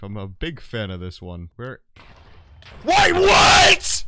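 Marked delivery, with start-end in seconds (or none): 2.8-4.0 shocked shout. Real, not acted. Sudden death.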